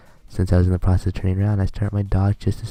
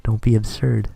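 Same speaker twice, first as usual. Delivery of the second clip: higher, scolding schoolgirl voice, fired up; angry sister; 5 semitones higher than usual. Acted. Angry twin yells at Okazaki over crying sister in higher scolding voice. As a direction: tear into him for making her sister cry.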